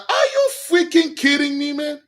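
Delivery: whiny outrage at being disturbed; exasperated king. Retold or imitated. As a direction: play the annoyed king interrupted at his party. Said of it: "Ishbosheth was like".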